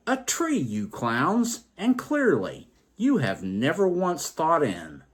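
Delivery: high, smug mock roar with a grin; knowing roar. A narrator's reading. Fourth man mocking the other clowns, grinning mock roar. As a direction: gloat it out, grinning. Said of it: "roared with knowing grin".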